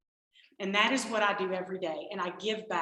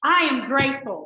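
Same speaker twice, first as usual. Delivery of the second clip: much higher and louder, bright sing-song insistence; chirpy mock cheer; 7 semitones higher, 10 dB louder than usual. Wife answers grumpy husband with loud cheerful gratitude. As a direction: lay it on sweet and gushing, slower on "you know, for me". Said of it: "And I'm like".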